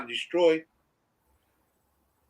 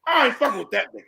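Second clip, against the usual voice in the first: imitating a shaken listener; 8 semitones higher than usual. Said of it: "They have to start thinking about it like".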